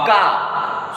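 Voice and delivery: "ka" as a hard k sound; sound demo. Shown as a demonstration. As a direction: isolate "ka" to teach the hard c. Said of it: "se will be pronounced".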